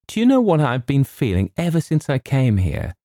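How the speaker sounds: put-on high, eager girl's voice; girlish confiding. A narrator's reading. Girl confides her feelings to James, eagerly. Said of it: "She hesitated".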